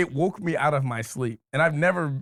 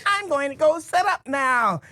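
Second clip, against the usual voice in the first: retold Corey; 10 semitones higher, slower than usual. Corey dancing away from the fight, high slow sing-song. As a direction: play it dancing and dodging. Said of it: "And she's like".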